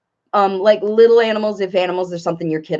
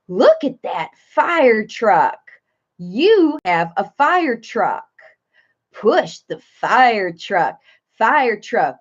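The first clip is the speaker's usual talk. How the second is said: put-on slow sing-song kids' video voice; sing-songy; slower than usual. Shown as a demonstration. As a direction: state it simply in short, drawn-out phrases for a toddler. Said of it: "short little phrases with sing-songy stuff in your voice".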